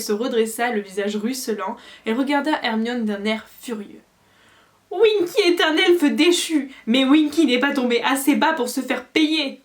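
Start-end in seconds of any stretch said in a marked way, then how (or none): 4.9-9.6 squeaky elf. A narrator's reading. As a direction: squeak it out like an offended house-elf. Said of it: "couina-t-elle".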